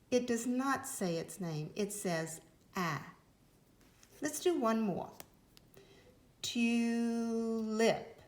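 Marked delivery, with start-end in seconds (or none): 6.4-8.1 Tulip said TU, pause, LIP, with a long U; slow teacher demo of Tulip=; split into syllables. Shown as a demonstration. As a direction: break Tulip after the TU. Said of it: "Did you hear it break here?".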